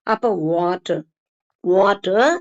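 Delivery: வாட்டர் said with round lips and no final r; rounded W, silent R. Shown as a demonstration. Teacher repeating the model for learners, r dropped. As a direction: end வாட்டர் on an open vowel. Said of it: "இந்த ஆர் சவுண்டையும் நிறுத்திக்கணும்".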